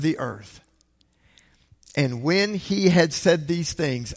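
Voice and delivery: measured, deliberate Bible reading; scripture reading. Acted. Pastor reading Acts aloud to the congregation, measured. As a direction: read the passage with weight and space.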